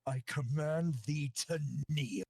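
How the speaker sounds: lightly voiced commanding king; a hint of a regal royal command; warrior king. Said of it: "and Ezra goes".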